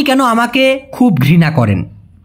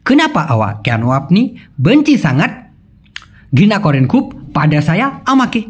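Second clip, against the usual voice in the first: phrase by phrase for repeating. Shown as a demonstration. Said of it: "আমার সাথে একবার বলুন প্লিজ".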